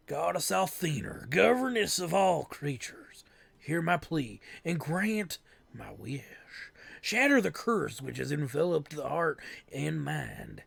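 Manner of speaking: grave, measured spell prayer; solemn incantation. Acted. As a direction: intone the prayer to the goddess. Character recites a spell.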